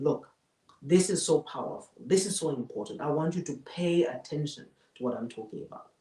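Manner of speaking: sober, earnest delivery, gently lowering; sober and important. Shown as a demonstration. Speaker asking the audience to pay attention, soberly. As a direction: settle down to make a serious point. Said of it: "when I want to be sober".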